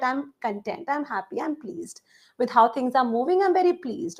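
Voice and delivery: soft, understated contentment; relaxed contentment. Acted. Teacher showing students what pleased sounds like, relaxed. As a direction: say it with mild, easy satisfaction. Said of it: "in a more relaxed manner".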